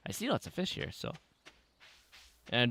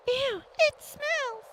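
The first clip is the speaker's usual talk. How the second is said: ew; much slower than usual. Pretend. Voices kid disgusted at sewer.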